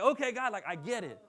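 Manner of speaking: loud, high celebration; celebrating after the date yes, loud and high; excited okay God. Retold or imitated. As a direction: cheer it out to God. Celebrating outside.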